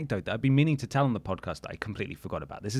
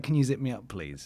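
put-on Geordie accent; 4 dB quieter than usual. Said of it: "In this strong Geordie accent".

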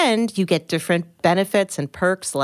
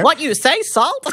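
surprised; 8 semitones higher than usual. Acted. Mock surprised reaction.

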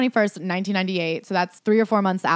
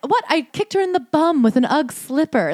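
high, breezy mock innocence; mock casual shrug; 8 semitones higher than usual. Host mocks his excuse about the slipper kick, in a high breezy voice. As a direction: brush it off like it's nothing. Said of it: "for you to be like".

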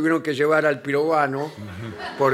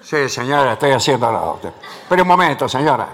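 cavernous plumber voice; 4 semitones lower, 4 dB louder than usual. Retold or imitated. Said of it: "las respuestas del plomero vienen con voz cavernosa".

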